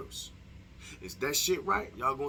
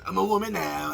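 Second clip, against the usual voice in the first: raised, loud put-on woman voice; mock woman voice; 5 semitones higher, 6 dB louder than usual. Vlogger joking about his deep voice, mock woman voice. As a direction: overdo the fake woman voice. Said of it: "I have a deep D M X voice".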